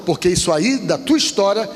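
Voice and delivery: preacher's drawn-out, rising and falling exhortation; pregação exortativa. Real, not acted. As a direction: urge the congregation, stretching key words. (pregação enfática, palavras alongadas)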